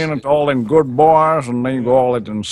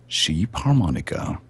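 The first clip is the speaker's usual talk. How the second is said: Swedish accent; 9 semitones lower, 6 dB quieter than usual. Shown as a demonstration. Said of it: "The way you would normally say them".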